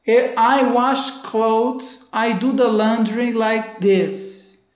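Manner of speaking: very slow example sentence. Shown as a demonstration. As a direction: spell it out slowly for students. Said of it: "sempre que você vai falar".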